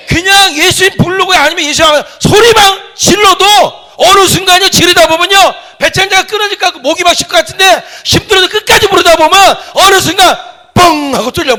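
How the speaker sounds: high, loud preaching cry; fervent shouted sermon climax; full-force preaching. Real, not acted. Urges crying out in prayer.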